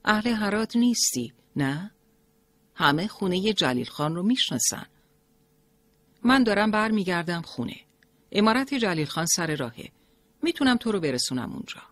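put-on a kind old cart driver offering help; kindly old carter. A narrator's reading. Old carter offering Mariam a ride, kindly. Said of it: "پیرمرد با مهربانی گفت".

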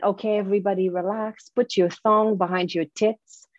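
put-on mispronounced French accent; thick French accent, teeth as tits. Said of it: "that's my French accent".

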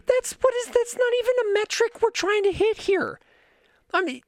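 high, disbelieving outburst; can't believe that's the bar; incredulous. Real, not acted. Incredulous rant to chat.

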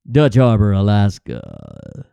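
deep, dramatic documentary announcer, drawn out; TV narrator voice. Pretend. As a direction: drop it low like a reality TV narrator. Mimics Deadliest Catch narrator.

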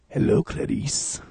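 slow, whispered creepy greeting; slow sinister whisper; Hannibal Lecter whisper. Retold or imitated. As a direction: hiss it slowly like a cannibal.

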